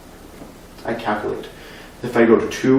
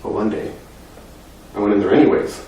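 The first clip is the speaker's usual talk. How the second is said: soft, low and halting; subdued, grieving confidence; hushed confession; 6 semitones lower, 12 dB quieter than usual. Acted. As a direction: confide it quietly, with long pauses. Child confides secret about father's death.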